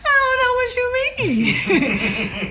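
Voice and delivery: very high, slow mock-crying whine; hammed-up tearful squeal, close to laughing; mock wailing. Rattled hopeful answers the executive, high mock wail. Her near-tears reply, mockingly retold.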